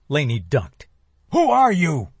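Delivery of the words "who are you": high, loud panicked scream. Acted. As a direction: scream it into the storm. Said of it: "he screamed".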